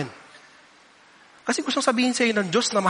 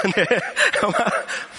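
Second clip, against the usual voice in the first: laugh. Real, not acted. Laughs at own joke.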